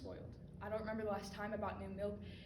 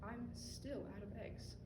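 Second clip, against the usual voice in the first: slow, soft, far-off aside; stray thought; 2 semitones lower, 10 dB quieter, slower than usual. Acted. Distracted mind wanders back, slow and soft. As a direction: drift off mid-sentence.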